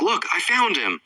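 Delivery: high-pitched mock yell, no real volume; retold yell. Paige spots the runaway boy, retold yell. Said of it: "Paige yells out".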